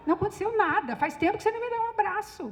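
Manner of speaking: retold pleading for a hug; playful insistence. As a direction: protest affectionately to a husband, pitched high. Retelling her demand for a hug.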